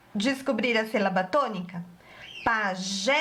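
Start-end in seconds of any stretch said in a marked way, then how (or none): 2.4-3.1 "Pajé" called out with a long held "jé"; calling the word. Shown as a demonstration. Teacher calls the word to discover the stressed syllable, calling out. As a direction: call "Pajé", stretching the final vowel. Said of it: "Vamos chamar a palavrinha".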